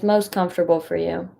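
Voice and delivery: calm, unhurried guidance with long pauses; guided meditation. Acted. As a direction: gently guide listeners into stillness, leaving space between phrases.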